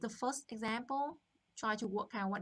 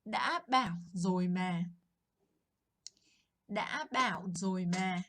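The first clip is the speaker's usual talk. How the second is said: satisfied told-you-so; 3 semitones lower, 4 dB louder than usual. Shown as a demonstration. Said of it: "kind of very satisfying when you get to say".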